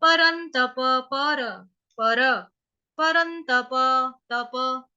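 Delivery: slow परंतप broken into param and tapa; deliberate syllables, परंतप ending in a full pa; full final vowel. Shown as a demonstration. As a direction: sound the last a of परंतप. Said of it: "तप पूरा बोलेंगे".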